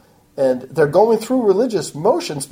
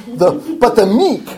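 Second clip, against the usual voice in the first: louder, higher blurted misstart on meek; misread slip; 4 semitones higher, 4 dB louder, slower than usual. Real, not acted. Preacher misreading the Psalm reference, louder blurt. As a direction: blurt the wrong verse out. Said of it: "that was a slip".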